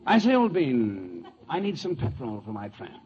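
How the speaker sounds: hammed-up British accent; Ronald Colman. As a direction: play a drawling English film star. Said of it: "like Ronald Colman".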